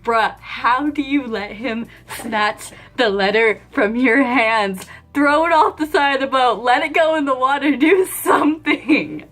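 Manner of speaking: retold exasperated tirade at the boyfriend; exasperated scolding. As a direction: let him have it, climbing in frustration. Scolding boyfriend over the letter.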